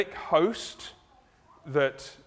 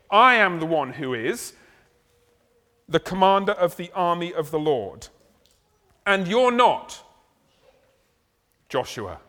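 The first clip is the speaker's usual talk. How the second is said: "I am the one" with I pushed out louder; stress on I; 5 dB louder than usual. Shown as a demonstration. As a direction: hit I as opposed to anybody else. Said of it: "So I, as opposed to anybody else".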